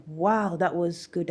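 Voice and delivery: slow, admiring "wow"; impressed boss. Retold or imitated. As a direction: imitate a boss impressed, drawing it out. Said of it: "My boss was just like".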